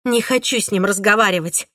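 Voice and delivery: ordinary delivery, nothing marked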